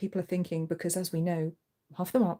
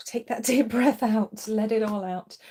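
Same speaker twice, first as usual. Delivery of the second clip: calm breathing guidance; 2 semitones higher, 3 dB louder, slower than usual. Shown as a demonstration. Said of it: "remember to breathe".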